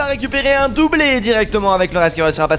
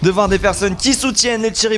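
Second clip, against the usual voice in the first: esports caster. Real, not acted. Live play-by-play casting.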